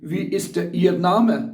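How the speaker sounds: very slow, every German word spelled out for learners; slow dictation. Shown as a demonstration. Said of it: "वो आपसे पूछेगी".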